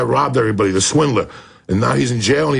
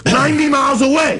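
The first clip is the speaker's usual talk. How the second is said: indignant shout of the number; outraged shout; 10 semitones higher than usual. Real, not acted. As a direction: yell the distance in disbelief. Repeats point in outrage.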